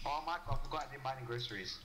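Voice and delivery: lightly voiced dad, quick and casual; a hint of a forgetful father. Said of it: "he's pretending to be a dad".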